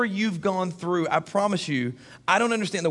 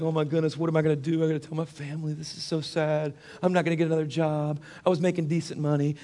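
mope through it in a subdued run of worries; mock moping; 3 dB quieter than usual. Preacher acting himself walking out after being fired, mildly moping. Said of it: "I was kinda, like, moping".

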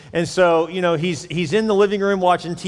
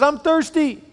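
put-on whiny kid; 11 semitones higher, 3 dB louder, slower than usual. Child answers dad in joke.

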